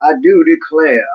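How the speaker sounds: hammed-up Southern accent. Shown as a demonstration. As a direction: declare it like a mock Southerner. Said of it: "A Southern accent".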